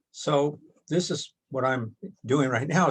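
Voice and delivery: ordinary talk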